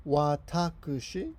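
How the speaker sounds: watakushi spelled out slowly syllable by syllable, wa-ta-ku-shi; unhurried teacher demo of watakushi; slow clear model word. Shown as a demonstration. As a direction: say watakushi slowly for learners to copy. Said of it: "so we have watakushi".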